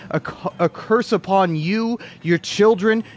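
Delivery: building, rapid-fire mock damnation; mock curse. Gamer damning Nintendo and its descendants, mock wrathful. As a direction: pile up the curse, rising to the end.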